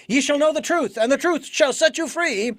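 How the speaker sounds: scripture recitation. Shown as a demonstration. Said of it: "quoting scripture".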